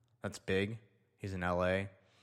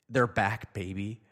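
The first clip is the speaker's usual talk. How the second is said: excited shout; 8 dB louder, slower than usual. Real, not acted.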